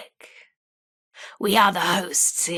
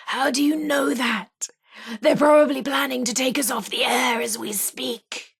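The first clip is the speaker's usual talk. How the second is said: higher-pitched, worried radio host; a touch of anxious urgency; mild alarm; 5 semitones higher than usual. Acted. Fears being taken off air.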